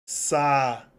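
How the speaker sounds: "Sa-u-de" in three separated syllables; slow, split-up "Sa-u-de". Shown as a demonstration. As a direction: say "Sa-u-de" with long gaps between syllables. Splits example word into syllables.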